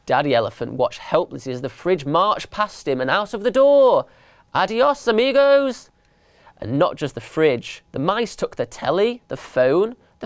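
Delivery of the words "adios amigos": high sing-out goodbye; gleeful farewell call. A narrator's reading. Mice waving off the family they robbed, gleeful farewell call. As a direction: call it out high, stretching the last word.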